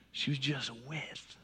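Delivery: hushed repetition of the key phrase; soft echo. Shown as a demonstration. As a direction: let the words fade to near silence. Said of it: "repeated softly".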